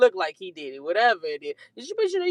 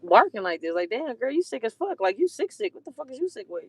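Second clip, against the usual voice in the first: disgusted mock outrage; 4 semitones higher than usual. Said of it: "everybody looking like".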